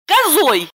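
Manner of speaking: high, loud offended cry; indignant outburst. A narrator's reading. Lipochka reminding Roman he called her a goat, loud and high. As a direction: fling the insult back.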